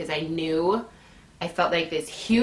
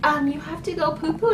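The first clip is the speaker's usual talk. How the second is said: high, quick questioning voice; puzzled lady; 10 semitones higher, much faster than usual. Retold or imitated. Lady asks labouring woman about pooping, puzzled high voice. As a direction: imitate the lady's high, hesitant question.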